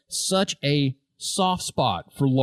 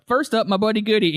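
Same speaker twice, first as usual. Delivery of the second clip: higher-pitched quote of Shoresy; imitated announcement; 6 semitones higher, faster than usual. Shoresy introducing his buddy Goody, higher-pitched imitation. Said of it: "because he's like".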